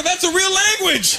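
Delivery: high, drawn-out comic disbelief; astonished realisation. Acted. Traveller finding the movie's language is real, comic astonishment. Acts out his astonished discovery.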